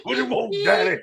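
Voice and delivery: squeaky high mocking imitation; old Southern voice, high. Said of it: "like an old Southern nigga that drive the bus".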